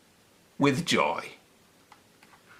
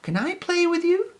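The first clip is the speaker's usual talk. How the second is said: tag. A narrator's reading. Peppy asks the mice.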